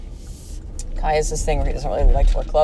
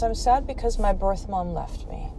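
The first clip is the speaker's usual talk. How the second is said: soft, higher voice for a retold confession; sad child confiding; 4 semitones higher, 5 dB quieter than usual. Adopted son to his mom, softly sad. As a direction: quietly imitate a hurt little one.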